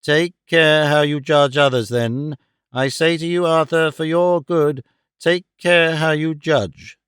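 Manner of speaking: stern, slow, weighty retort on "care"; retort with emphasis. A narrator's reading. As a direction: press hard on "care", a warning. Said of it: "she retorted with emphasis".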